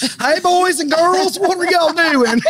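put-on high, slow sing-song greeting to kids; drawn-out, high and friendly, like a TV host; Southern Mama greeting. Greeting the kids in the store, high slow sing-song. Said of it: "and I was like".

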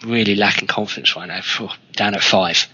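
low, dejected mumble; mopey player voice. Retold or imitated. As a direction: sound down on yourself. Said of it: "who's lacking confidence will say".

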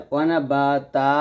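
"ওয়ানা বা তা" with open stretched vowels; stopping pronunciation. Shown as a demonstration. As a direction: end "তা" long and open, no nasal. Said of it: "আর যদি আমরা থামি".

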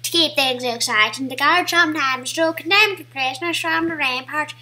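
lightly voiced character reading; playful put-on presenter manner. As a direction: read it out in a mildly affected voice. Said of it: "I don't know why I'm speaking like this".

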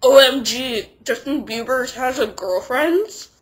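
gasp-worthy gossip, stretched out and rising at the end; shocked fangirl. Retold or imitated. Fangirls seeing their idol with a girl, loud scandalized disbelief. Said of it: "all the fangirls ... is like".

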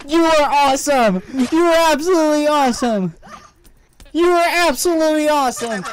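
wrestling commentator. Pretend. Hyping up a player's big play.

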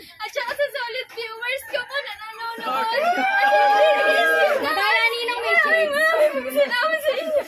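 laughing and crying. Real, not acted. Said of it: "Tawa, iyak?".

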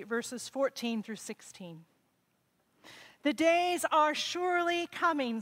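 solemn, measured Bible reading; scripture reading. Acted. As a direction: proclaim it from the lectern. Reads scripture at the service.

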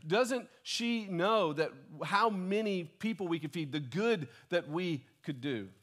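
mock-indignant grumbling disciple; imitating Judas. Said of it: "he's thinking to himself".

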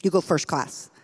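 a hint of a proud helper, quiet and content; pleased, satisfied. Little man at the platform end showing the couple their seat, pleased and quiet. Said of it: "with a very pleased look on his face".

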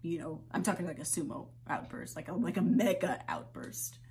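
half-laugh through the exhaustion; shaky quiet plea. Acted. Quiet after breakdown.

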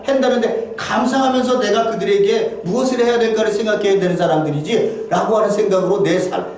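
ordinary delivery

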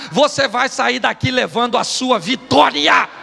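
emphatic pulpit declaration; preaching proclamation. Real, not acted. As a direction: build to a shouted last word. Preacher proclaims victory to listeners.

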